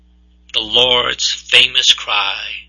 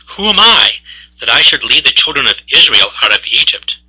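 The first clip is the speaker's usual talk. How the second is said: doubting Moses; 4 dB louder, faster than usual. Acted. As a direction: blurt it out like an overwhelmed everyman. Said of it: "Moses answers in a very typical fashion for us mere mortals".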